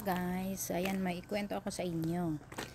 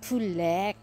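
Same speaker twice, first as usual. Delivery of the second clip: Korean accent imitation; 3 semitones higher, 4 dB louder, much slower than usual. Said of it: "Tapos sabi niya".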